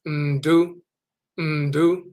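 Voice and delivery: "ndu" short, nasal n then doo, no ending; Akwamu word. Shown as a demonstration. Teacher showing his own dialect's short "ndu". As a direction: clip "ndu" with a hummed n. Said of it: "In the Akwamu Akan dialect".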